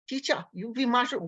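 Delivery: mimicked beginner's muddled English in a Sri Lankan accent; imitated Sri Lankan accent. Teacher mimicking her student's request, imitated Sri Lankan accent. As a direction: imitate a Sri Lankan learner's blurred words. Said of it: "Whatever she said".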